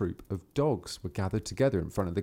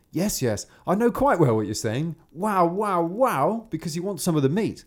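knowing peasant; 7 semitones higher, 4 dB louder than usual. Acted. Peasant answers the dog.

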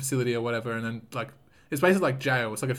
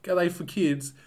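higher-pitched retold complaint, half laughing; mock pissed-off; 5 semitones higher, slower than usual. Dad griping that Heelys only come in kids' sizes, mock pissed-off. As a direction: replay the outrage in a comic, raised pitch. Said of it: "I was so pissed off".

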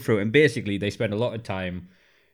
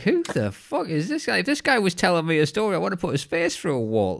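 much higher, fast, incredulous rant; exasperated mock outburst; 8 semitones higher than usual. Reacting to the annoying producer, high exasperated rant. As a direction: spit it out in disbelief. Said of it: "And you're like".

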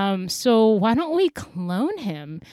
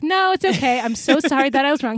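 high mock apology; 5 semitones higher, 7 dB louder, faster than usual. Witch apologizes in retold story.

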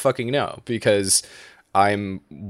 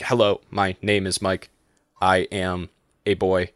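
flat even delivery with no stress; robotic monotone. Shown as a demonstration. Demonstrating Japanese-style English to his cohost, flat robotic monotone. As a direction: speak English like a robot, no emphasis. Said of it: "it's almost robotic".

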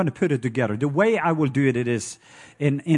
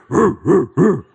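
1 loud hooting call; 6 dB louder than usual. Retold or imitated. Imitating night creature hoots.

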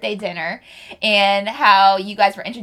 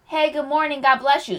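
lightly voiced, higher churchgoer greeting; imitated church greeter; 5 semitones higher, 3 dB quieter than usual. Churchgoer walking up to a first-time visitor, imitated greeting. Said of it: "This is how they talked".

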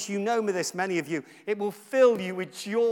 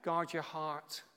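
verse spoken aloud; slower than usual. Shown as a demonstration. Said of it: "speak it out loud like I'm doing right now".

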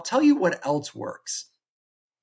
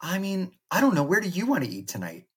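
playing Jackie; 6 semitones higher, faster than usual. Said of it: "and I'll be Jackie".

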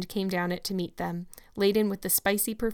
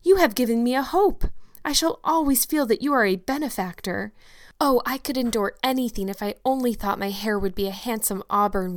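put-on bright, higher hopeful girl; eager young girl; 3 semitones higher, 4 dB louder than usual. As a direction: gush with dreamy enthusiasm. Anne speaks, hopeful.

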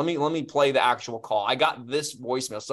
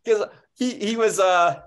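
high, loud laughter through the words; real laughter, louder and much higher; laughing; 9 semitones higher, 9 dB louder, slower than usual. Real, not acted. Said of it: "it was so funny".

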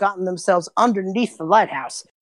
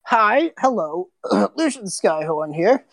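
slow, lightly voiced halfling; a hint of a sheepish old man; Lucian's greeting; 3 semitones higher, slower than usual. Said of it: "You just hear a voice just go".

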